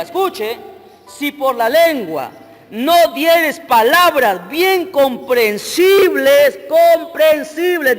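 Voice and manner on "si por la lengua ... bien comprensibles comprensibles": loud, very slow, hammered syllables; forceful scripture reading. Real, not acted. Preacher drives the verse home to congregation, forceful slow reading. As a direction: stretch COMPRENSIBLES out loudly.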